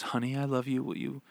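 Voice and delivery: soft. Retold or imitated. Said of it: "and very softly".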